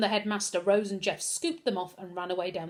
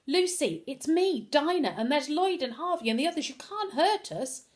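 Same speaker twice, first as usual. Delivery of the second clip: yelling; 6 semitones higher than usual. A narrator's reading. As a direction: call out to reach her. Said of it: "Dinah began to yell at her".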